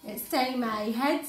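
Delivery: put-on children's storyteller, unhurried and emphatic; animated story reading. A narrator's reading. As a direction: read it to small children with lively swoops. Reads a picture story aloud.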